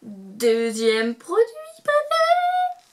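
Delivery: high, slow, drawn-out announcer voice; over-the-top excited reveal; hyped announcement. Pretend. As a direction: announce it like a game show. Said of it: "il faut que je me calme".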